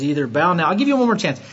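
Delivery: a king giving a last furious warning; angry king. Retold or imitated. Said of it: "He's all angry".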